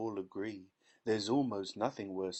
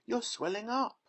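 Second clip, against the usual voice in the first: much higher frightened scream; 12 semitones higher, 4 dB louder than usual. A narrator's reading. Mother watching daughter swell, scream. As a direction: cry out in horror. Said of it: "screamed Missus Beauregard".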